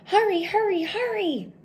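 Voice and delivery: high, loud hurried pleas; urgent urging. Acted. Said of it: "urged Bear".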